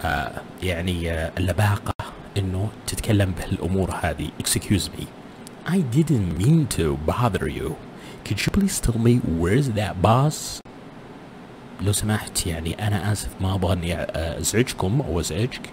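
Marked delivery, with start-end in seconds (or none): 4.4-10.6 polite request. Shown as a demonstration. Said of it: "دائمًا as polite".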